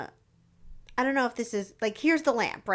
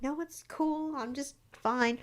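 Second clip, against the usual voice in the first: mock chill; 4 semitones higher, 7 dB quieter, slower than usual. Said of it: "the chillest person ever".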